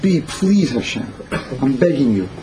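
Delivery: mild begging, as if praying on your knees; an understated plea for mercy; pleading prayer. Acted. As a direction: plead gently, leaving space after each phrase. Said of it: "like a prayer on your knees".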